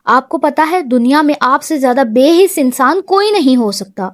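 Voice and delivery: ordinary delivery, nothing marked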